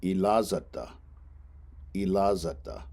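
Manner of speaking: ilazata said carefully for students; Lakota ilazata. Shown as a demonstration. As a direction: model ilazata clearly, each syllable. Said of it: "Next one".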